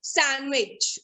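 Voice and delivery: "sandwich" as san-wich; silent D. Shown as a demonstration. Teacher explaining the rule, sandwich with silent D. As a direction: leave the D out of sandwich. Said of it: "The D is silent in the word".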